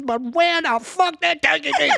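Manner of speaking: high, laughing through the punchline; laughing refrain. Acted. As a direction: crack up on the punchline. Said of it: "poem refrain laughed out".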